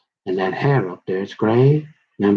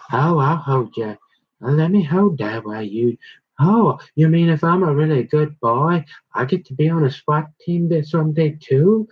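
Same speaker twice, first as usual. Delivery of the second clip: mock eager schoolgirl voice, higher; giggly schoolgirl; 6 semitones higher than usual. Matthew begging to join the swat team, mock schoolgirl giggle. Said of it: "giggling like a little schoolgirl".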